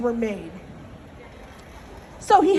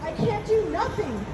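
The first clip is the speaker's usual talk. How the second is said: complaining rabbit; 3 semitones higher than usual. Acted. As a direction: whine helplessly, trailing into a small voice. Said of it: "He complained to all of his friends".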